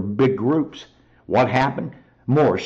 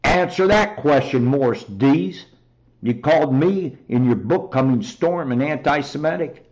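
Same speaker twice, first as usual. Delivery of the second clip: angry challenge; 3 semitones higher, 3 dB louder than usual. Real, not acted. Confronting Morris Dees angrily.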